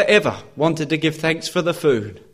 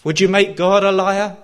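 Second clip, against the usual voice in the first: impassioned challenge from the pulpit; forceful preaching; 2 semitones higher than usual. Real, not acted. Preacher challenging listeners to believe God, forceful preaching. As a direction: press the questions home with conviction.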